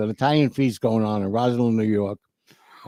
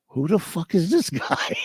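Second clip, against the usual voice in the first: incredulous laugh; 6 semitones higher than usual. Retold or imitated. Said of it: "I look at my cousin Robin like".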